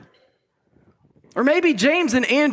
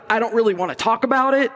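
put-on teenager vibes; faster than usual. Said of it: "teenager vibes of".

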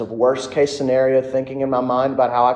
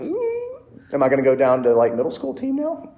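mock panicked squeal. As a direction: play the scared kid in the locker room, yelping. Retelling his own panicked thought.

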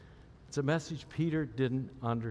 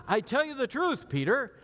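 solemn Jesus; 10 semitones higher, 4 dB louder than usual. Retold or imitated. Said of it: "He says".

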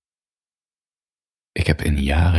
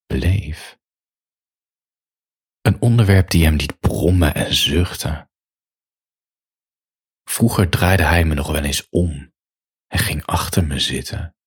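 measured bedtime reading with long pauses; intimate story reading. A narrator's reading. Writer reading a sombre, steamy bedtime story to listeners, intimate narration. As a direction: read it out phrase by phrase, letting each image hang. Reads own erotic story aloud.

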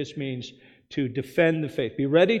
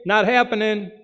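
stern God's reply; 6 semitones higher, 7 dB louder than usual. Pretend. God answering the sinners.

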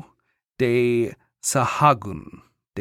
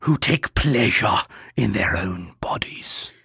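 scandalized friar; 3 semitones lower than usual. Acted. Quoting the judgmental friar Bernardo.

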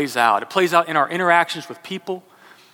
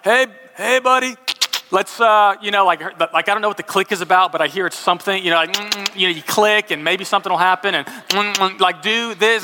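coaxing the horse; 3 semitones higher than usual. Retold or imitated.

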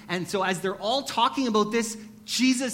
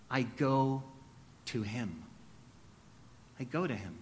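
much softer and lower, a near-whispered resolve; hushed confession; 7 semitones lower, 8 dB quieter than usual. Real, not acted. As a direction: let it fall away to almost nothing. Closing confession, almost whispered.

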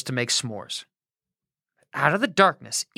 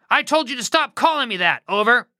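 mild mock shout; 5 semitones higher than usual. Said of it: "Joram shouted back".

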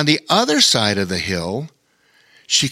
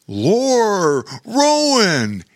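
higher, raised call across the hill; 8 semitones higher, much slower than usual. A narrator's reading. Bear calls out to the brothers, raised and carrying. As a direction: hail two friends from a distance. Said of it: "he called out".

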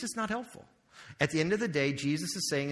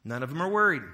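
proclaiming Jesus; 6 dB louder, faster than usual. Acted. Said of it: "Jesus says".

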